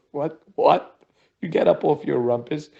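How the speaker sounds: indignant wife, snapping back; annoyed wife. Retold or imitated. Tired wife snapping at husband.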